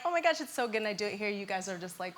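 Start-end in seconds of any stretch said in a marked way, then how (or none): 0.1-0.8 impressed family. Retold or imitated. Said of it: "they're like".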